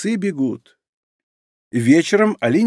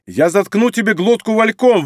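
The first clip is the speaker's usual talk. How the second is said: loud, wild, raised threat; furious threat; 6 semitones higher, 3 dB louder than usual. A narrator's reading. Inger threatening Alina with the beater, loud furious threat. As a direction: bark the threat at her. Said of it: "кричит Ингер, дико сверкая глазами".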